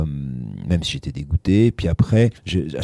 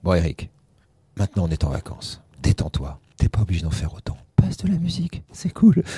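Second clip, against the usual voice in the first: Philippe Labro. Retold or imitated. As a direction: lightly imitate a reassuring older boss. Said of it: "Philippe Labro".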